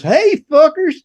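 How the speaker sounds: loud, high holler into a room; retold hollered greeting. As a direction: belt out a brash mock greeting. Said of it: "this guy comes in".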